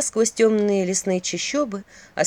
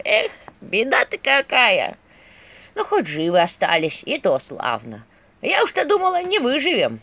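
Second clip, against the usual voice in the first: put-on fussing old skull voice. Talking skull figure voiced.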